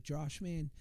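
put-on light Boston accent, big brother; lightly imitating a thick Boston accent. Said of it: "this thick Boston accent".

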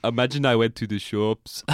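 lightly put-on German accent; a jokey hint of a German accent; mock German accent. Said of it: "That's my German accent".

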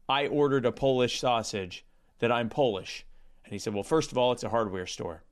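deadpan anti-joke storyteller, understated; Norm Macdonald impression. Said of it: "cease and desist from the Norm Macdonald estate".

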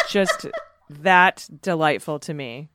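slow, laughing through the words. Real, not acted. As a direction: chuckle as you say it. Laughing while describing.

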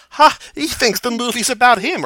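high, loud mock guffaw and jeer; mocking laugh. Fan quoting a great movie line, high mocking laugh. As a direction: imitate a scornful ha, carried high through the taunt. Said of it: "like, laughs, he's like".

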